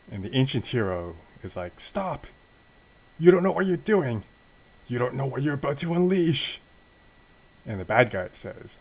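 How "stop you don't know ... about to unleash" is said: high, pleading hero's cry, building loud; acted-out frantic warning, pitched way up; desperate warning. Ancient hero warns the bad guy, high and desperate.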